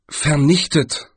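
slow, questioning "vernichtet"; Galder, puzzled. A narrator's reading. Galder queries Death's word, "vernichtet" drawn out, puzzled. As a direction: quote "vernichtet" slowly, as a doubtful query.

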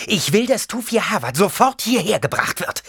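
tense whispered demand; hissed order. A narrator's reading. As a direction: hiss the order under her breath. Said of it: "fauchte Jessica".

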